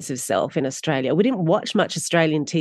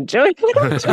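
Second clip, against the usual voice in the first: lightly put-on high, girly character voice; girly sweet voice; 4 dB louder than usual. Actor slyly keeping her character's voice, playfully girly and high. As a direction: pop up into a sweet, girlish pitch. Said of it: "this kind of girly, sweet quality to her voice".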